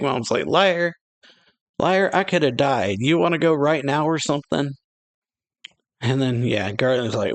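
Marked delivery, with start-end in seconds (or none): 0.5-4.7 raised, higher accusing yell; angry yell. Retold or imitated. Big Mom yelling at Whitebeard that she could have died, angry. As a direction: shout the accusation like a furious pirate queen.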